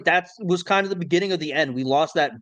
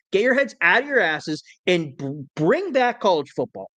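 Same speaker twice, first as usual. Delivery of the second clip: stuttering; 2 semitones higher than usual. Real, not acted. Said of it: "I'm stuttering because I'm so worked up".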